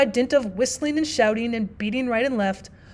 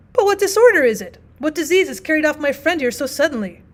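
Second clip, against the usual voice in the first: alarmed notary; 4 semitones higher, 6 dB louder than usual. Acted. Notary alarmed by his friend's death.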